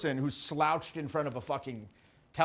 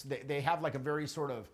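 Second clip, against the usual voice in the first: pinched voice; 6 dB quieter than usual. Shown as a demonstration. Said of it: "hear how my voice sounds when I do that".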